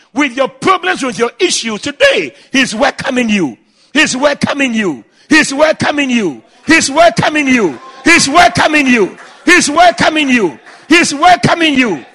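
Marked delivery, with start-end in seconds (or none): 2.5-12.0 building preaching refrain. Acted. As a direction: start steady, build louder each time.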